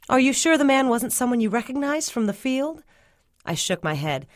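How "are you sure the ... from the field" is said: high-pitched, questioning mama; probing mama. A narrator's reading. Mama double-checks her daughter's account, high questioning voice. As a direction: probe her story, pitch held high.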